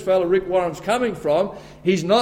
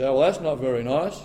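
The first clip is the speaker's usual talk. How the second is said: imitated objector; 5 semitones lower, 4 dB quieter than usual. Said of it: "You say".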